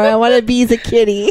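lightly put-on childish voice; mild mock pleading; silly kitty whine. Acting out own silly whine.

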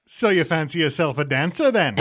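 lightly put-on New Zealand accent. Showing off the New Zealand version of a dance show, New Zealand accent. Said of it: "You do a fantastic New Zealand accent".

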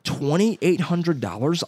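slow, high-pitched disbelief; incredulous. Real, not acted. Buyer balking at a dog's price, incredulous. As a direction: draw out the outrageous figure.

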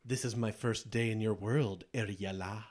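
lightly voiced smooth, seductive genie; a hint of a silky evil genie tempting her; understated imitation of a scheming genie; mini genie imitation. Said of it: "I'll do a mini imitation".

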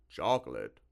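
loud, perplexed creature voice; baffled monster, loud; slimy monster, baffled. A narrator's reading. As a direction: puzzle loudly over a strange word.

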